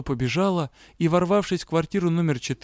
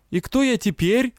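seething shrieking spirit; 8 semitones higher than usual. Acted. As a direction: hiss it out in fury. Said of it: "разъярённо поинтересовался он".

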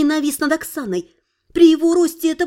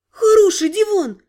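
defensive; 5 semitones higher, 3 dB louder than usual. Acted. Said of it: "встала она на защиту".

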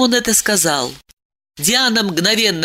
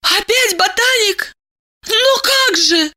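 despairing woman; 13 semitones higher than usual. A narrator's reading. Diana despairs to Eliseev, high and lost. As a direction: plead it high and helpless.

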